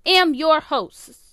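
loud, drawn-out host announcement; overdone, forceful host intro; a little aggressive. Real, not acted. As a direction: hit it too hard, slowly. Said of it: "why did I say it like that".

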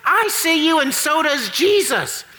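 parrot voice. Acted. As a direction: play the parrot calling out in the dark. Parrot voice in joke.

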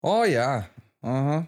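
put-on Minnesotan accent; lightly played Minnesota accent; Fargo accent. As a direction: agree like a Fargo local. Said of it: "you're still talking in the accent".

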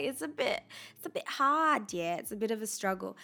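slipping into a British accent. Real, not acted. Host sorry after watching Love Island, British accent slipping in. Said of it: "my British accent might come".

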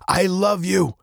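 high, emotional farewell; heartfelt farewell. A narrator's reading. Farewell between captain and daughter, high and heartfelt.

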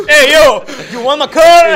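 loud high American thug; gangster voice. Retold or imitated. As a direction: bark it like a street tough. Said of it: "sale así el tipo".

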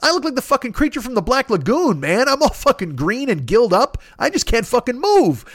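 high, slow pleading complaint; high, slow hammed-up self-pity; mock desperate whine. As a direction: whine like you're green and dying. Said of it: "I'm like".

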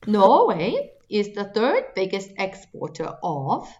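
slow, put-on Norwegian accent. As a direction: read it slowly in a Norwegian accent. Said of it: "Don't laugh at my accent".

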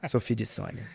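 low, lightly put-on mineiro accent; a hint of a Minas Gerais accent. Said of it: "dubla em mineirês".

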